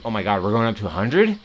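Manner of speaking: quick question climbing sharply at the end; mock alarm. Streamer voicing last month's oil-price panic, mock alarmed. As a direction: imitate disbelief with a rising finish.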